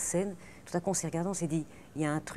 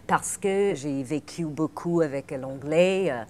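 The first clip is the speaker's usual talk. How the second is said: English accent; 4 semitones lower than usual. Shown as a demonstration. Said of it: "je peux prendre l'accent comme ça".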